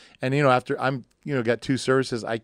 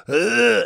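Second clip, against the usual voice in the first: mock retch; 5 dB louder than usual. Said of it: "the throw up thing".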